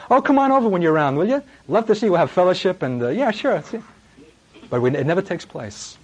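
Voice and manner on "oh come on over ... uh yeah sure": higher, breezy fake-friendly invite; mock casual invitation. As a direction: brush them off with a hollow welcome. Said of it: "the kind of invitations we give".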